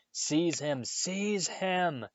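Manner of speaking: high, urgent shriek climbing. A narrator's reading. Voldemort shrieking at Quirrell to grab Harry. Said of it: "shrieked Voldemort again".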